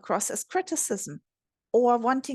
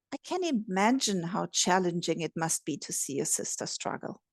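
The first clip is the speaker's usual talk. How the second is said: soft empathetic tone; 4 semitones lower, 4 dB quieter than usual. Shown as a demonstration. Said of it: "compassionate tone".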